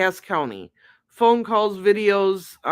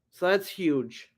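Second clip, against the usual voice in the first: hushed whisper; breathy aside; 5 dB quieter than usual. Real, not acted. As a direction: lean in and whisper it. Stresses importance of quote.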